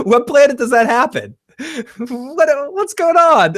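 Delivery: a high, laughing question of disbelief; disbelieving laugh, pitched high. Real, not acted. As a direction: laugh through it, incredulous.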